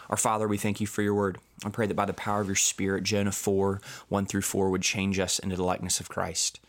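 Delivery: calm, earnest closing prayer. Acted. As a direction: pray it steadily, speaking to God.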